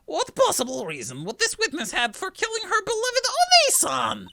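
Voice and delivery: high sweet feigned innocence. Acted. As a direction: sound sweet and wounded. Witness voiced.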